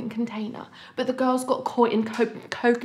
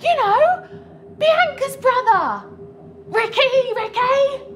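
can't contain the excitement; excited; 11 semitones higher, slower than usual. Acted. Gushing about the famous client.

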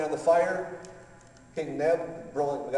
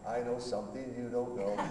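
playful singsong taunt with a laugh; teasing laugh; 5 dB quieter than usual. Retold or imitated. God laughing down at the pastor, teasing singsong. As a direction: tease like a child with a secret. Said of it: "God's up there laughing".

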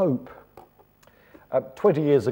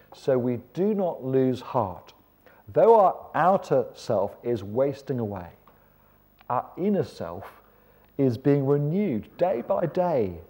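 slow, weighty Bible reading; measured, emphatic preacher's reading; scripture reading; 3 semitones higher, 3 dB louder than usual. Acted. Reads scripture aloud.

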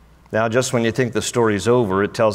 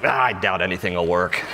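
doubting Thomas; 5 semitones lower than usual. Acted. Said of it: "Thomas is like".

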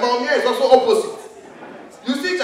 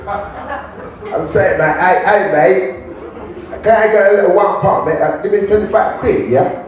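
mock British begging; 5 dB louder, slower than usual. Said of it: "some U K people are really broke".

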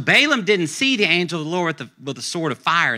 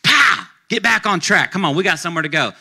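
higher, louder hammed-up yell at the donkey; mock angry shout; 3 semitones higher, 4 dB louder than usual. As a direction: bark it like a rider whipping his mount. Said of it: "Balaam starts beating the donkey".

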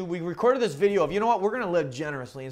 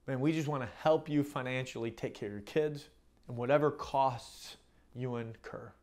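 lower, softer, tender reassurance; gentle condolence; 4 semitones lower, 3 dB quieter than usual. Retold or imitated. Pastor offering help to a widowed single mom, gentle condolence. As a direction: console gently, voice dropped low.

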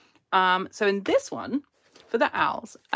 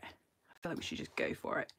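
whispered aside; 11 dB quieter than usual. Real, not acted. Nervous aside to herself.

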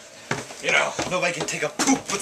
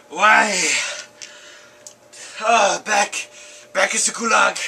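a lightly put-on Russian soldier, lamenting his death; hammed-up deathbed lament in a mild Russian accent; dying Russian soldier; 4 semitones higher than usual. Second take of the lament.

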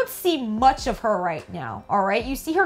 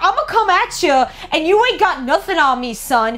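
mock taunting villain; 2 semitones higher, 4 dB louder than usual. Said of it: "Thresh is all like".

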